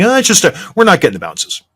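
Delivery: mock excuse. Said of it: "Don't step to the podium and think".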